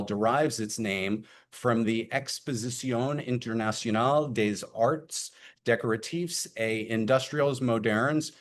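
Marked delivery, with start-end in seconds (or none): 2.1-8.3 terrible French accent. Real, not acted. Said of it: "please forgive my terrible French accent".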